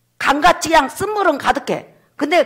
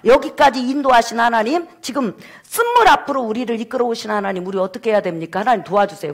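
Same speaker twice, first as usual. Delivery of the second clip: pleading prayer. Acted. Moses begging God for help before bitter water, pleading. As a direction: call on God, then drop to a plea. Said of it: "하나님 앞에 기도했어요".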